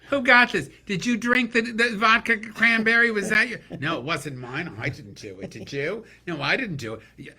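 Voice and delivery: women at the table fight over the check, loud and high; bickering women at the bill. Retold or imitated. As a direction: squawk over the bill like fussing ladies. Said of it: "the women at the table are going".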